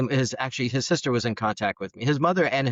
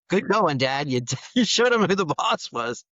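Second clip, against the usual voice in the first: mock sarcastic praise; 6 semitones higher than usual.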